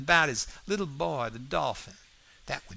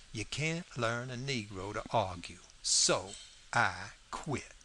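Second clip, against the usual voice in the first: ordinary delivery, nothing marked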